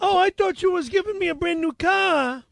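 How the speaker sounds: hammed-up Boston accent. Arguing about the promised car, Boston accent. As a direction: protest in put-on Boston speech. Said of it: "You do an amazing Boston accent".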